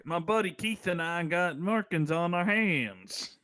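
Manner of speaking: put-on deliberately awful Southern accent; slow, horrible Southern accent. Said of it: "the worst Southern accent I've ever had".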